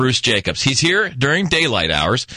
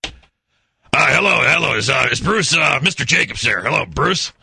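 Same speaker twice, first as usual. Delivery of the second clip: lightly disguised polite official; a hint of a fake Lung Association rep; prank caller voice. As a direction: play a stiff anti-smoking caller. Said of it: "Let's gotta get a voice".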